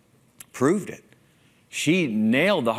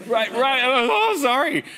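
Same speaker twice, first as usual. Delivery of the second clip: taken aback; 12 semitones higher, 3 dB louder than usual. Retold or imitated. Acted reaction to her throwing up.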